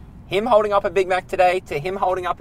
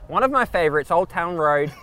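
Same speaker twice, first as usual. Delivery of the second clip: loud, high hammed-up country DJ; country radio announcer; 7 semitones higher, 5 dB louder than usual. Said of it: "Zach, an audition".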